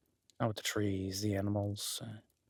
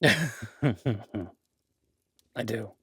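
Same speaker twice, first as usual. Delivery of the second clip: laughing; 6 dB louder than usual. Acted. Laughing at his own joke with the guest. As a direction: laugh through the start of the line.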